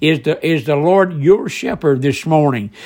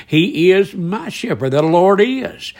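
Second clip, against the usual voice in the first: firm stress on "is" both times; very emphatic; 2 semitones higher than usual. Retold or imitated. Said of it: "David said very emphatically here".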